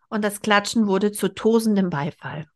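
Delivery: reading a novel aloud, expressive; story narration. A narrator's reading. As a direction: read it like an audiobook.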